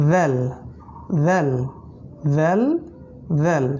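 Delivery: ভেল said lightly with the tongue tip forward; letter drill. Shown as a demonstration. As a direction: repeat ভেল at the teeth. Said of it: "জিহ্বা সামনে আসবে".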